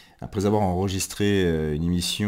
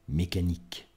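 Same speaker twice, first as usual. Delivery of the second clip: measured poetry reading with long pauses; spare, solemn recital, phrase by phrase; poem recitation. Acted. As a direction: let each fragment hang in silence, swelling then fading.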